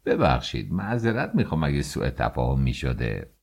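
grovel to the official to avoid trouble; pleading. Acted. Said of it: "به التماس گفت".

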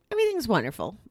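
talking through a yawn; yawny, sleepy words. Real, not acted. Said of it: "I'm yawning on air with you".

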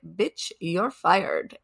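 put-on slow, soft foreign-accented English. Quoting the heroine firing the manager in English, slow foreign accent. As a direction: imitate a light foreign accent, dragging the words out. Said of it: "in her little accent".

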